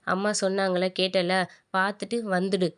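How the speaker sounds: retold firm order, "பார்த்துட்டு வந்துடு" set apart after a pause; "பார்த்துட்டு வந்துடு" spaced out with understated insistence; firm emphasis. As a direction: press home "பார்த்துட்டு வந்துடு" as a mildly firm instruction. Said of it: "அழுத்தி சொல்றாரு".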